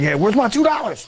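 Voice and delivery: high-pitched joking demand; mock demand.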